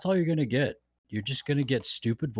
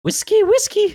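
bartender catchphrase; 10 dB louder than usual. Retold or imitated.

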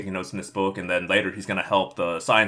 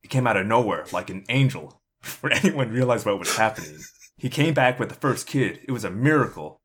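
tearful; 3 semitones higher, 4 dB louder than usual. Retold or imitated. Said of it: "dabs at his eyes and says".

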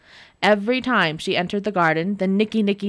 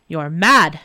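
scornful; 3 semitones lower, 6 dB louder than usual. Acted. Devil scornful.

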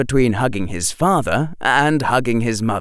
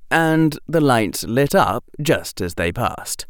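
usual speaking voice

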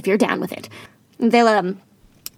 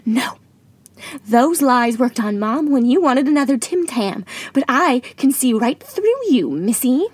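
put-on American accent. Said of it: "drop the American accent".

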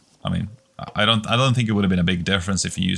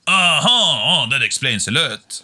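put-on high, knowing French accent; French accent, amused; 8 semitones higher, 4 dB louder, slower than usual. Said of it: "You've got a good French accent".

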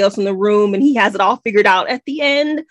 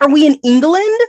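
higher-pitched puzzled question; baffled; 5 semitones higher than usual. Retold or imitated. Reader puzzled by the book's setting, baffled. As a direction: ask it in confusion, rising at the end. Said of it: "I was so confused".

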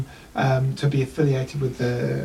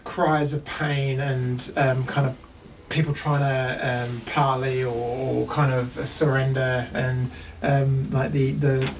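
slow scene narration; 2 semitones lower, slower than usual. A narrator's reading. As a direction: paint the battle slowly. Game master scene setting.

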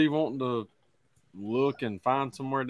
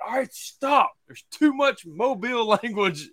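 much higher, teasing imitation of a boy; mock college boy; 7 semitones higher, 4 dB louder than usual. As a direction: playfully mimic a boy complaining about the accent. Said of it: "One of the boys is like".

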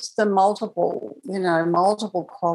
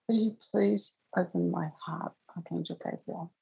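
soft, sweet, pleading ask; very sweetly; 7 dB quieter than usual. Retold or imitated. Asking Archangel Gabriel to open her heart, very sweetly. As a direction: ask the archangel gently, almost tenderly, softer. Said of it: "very sweetly".

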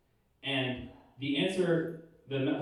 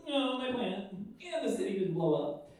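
mock whine; 4 semitones higher than usual. Jonah upset plant died.

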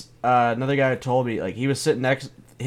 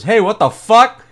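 high, loud startled what the fuck; a sudden shocked yell from the front row; 9 semitones higher, 10 dB louder than usual. Retold or imitated. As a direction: blurt it out as if caught off guard. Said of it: "Lewis looks up and says".

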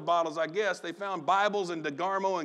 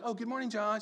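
happy mother; 4 semitones higher, 5 dB quieter than usual. Retold or imitated. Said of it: "She's a happy hug and happy".

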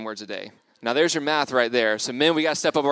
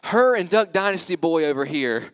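louder mock Southern schoolgirl; deep Southern accent; 2 semitones higher, 5 dB louder than usual. Camp girl naming the couple at lunch, in a deep Southern accent. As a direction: point them out in a put-on Southern accent. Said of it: "deep Southern accent".

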